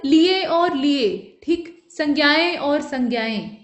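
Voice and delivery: लिए and संज्ञाएं read out slowly side by side; slow, careful listing of the forms; teacher slowly comparing the spellings; slow demo. Shown as a demonstration. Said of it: "दो रूप व्यवहार में आते हैं".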